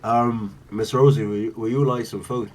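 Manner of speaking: Solomon. Acted. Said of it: "Solomon comes around ... and says".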